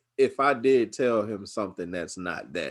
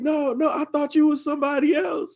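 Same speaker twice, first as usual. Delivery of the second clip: laughing excuse; 3 dB louder than usual. Retold or imitated. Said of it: "I'm like".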